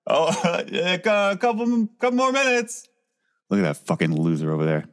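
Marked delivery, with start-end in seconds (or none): 0.1-2.9 laughing. Acted. Laughing while mocking.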